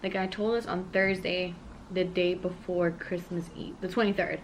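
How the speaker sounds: talking through hot food; words around a spicy mouthful; mouth full of hot food. Real, not acted. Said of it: "Sorry, my mouth".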